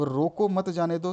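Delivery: रोको, then मत जाने दो run together; pause after रोको. Shown as a demonstration. Teacher explaining a comma to students, pause after रोको. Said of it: "मतलब उसको रोको भैया".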